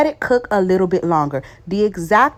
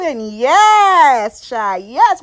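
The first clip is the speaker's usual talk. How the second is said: higher, louder, gleeful yes; excited yes; 5 semitones higher, 4 dB louder, much slower than usual. Real, not acted. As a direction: celebrate like you nailed it. Celebrating the perfect rice.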